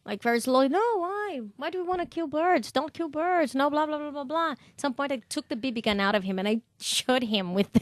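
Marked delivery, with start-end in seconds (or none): 0.7-4.5 lightly voiced high scolding, softer; a hint of mock lecture, pitched up. Girl scolding the boy about shooting birds, mock high lecture. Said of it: "I was like".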